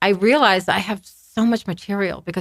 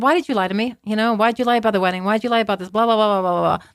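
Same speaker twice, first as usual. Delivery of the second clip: mild mock confrontation, pitched higher; retold screaming; 4 semitones higher, faster than usual. Retelling how she confronted her lying ex, mild mock scream. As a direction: rattle off accusations without really shouting. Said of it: "the way I was screaming at him".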